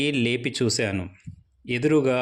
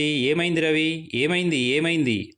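urgent worried questions, raised; asked loudly; 4 semitones higher than usual. Acted. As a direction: call out to Ravi anxiously. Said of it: "అన్నాడు గట్టిగా". (గట్టిగా అడగడం)

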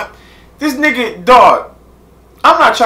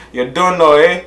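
put-on Jamaican accent. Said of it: "trying to get my Jamaican accent on".

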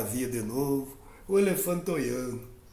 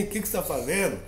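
plain reading voice

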